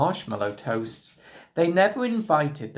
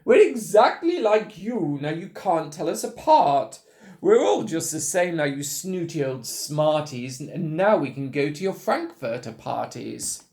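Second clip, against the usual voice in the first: high, loud triumphant yelling; higher and louder crowing cry; excited yell; 3 semitones higher, 4 dB louder than usual. Acted. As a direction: shout it at the snooty ones, gleeful. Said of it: "they yelled".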